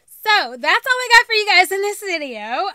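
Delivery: loud, bright vlogger sign-off; cheery video sign-off; upbeat outro. Acted. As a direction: sell the goodbye to the viewers. Vlog outro, bright presenter voice.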